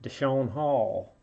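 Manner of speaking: drawn-out southern drawl on the name; mock southern accent. Card opener reading out a player's name, mock southern accent. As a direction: put on a slow, light southern accent. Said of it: "saying that with a southern accent".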